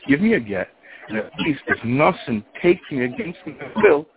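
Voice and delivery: high retold exasperation; enraged. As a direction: act out a fed-up wife's demand. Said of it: "she is enraged".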